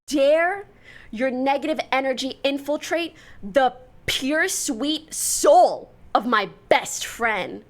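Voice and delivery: hammed-up fury defending a best friend; mock indignant. Vlogger mock-scolding a rude stranger, in hammed-up outrage. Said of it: "I'm like".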